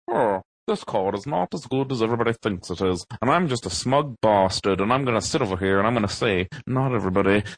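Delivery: lightly hammed-up smug know-it-all; mock smug. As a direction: play a self-satisfied contrarian, stretching the final gloat. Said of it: "I'm so smug".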